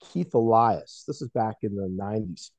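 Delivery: muffled, like through a wall. Real, not acted. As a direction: speak through a muffled mic. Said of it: "like, super muffled".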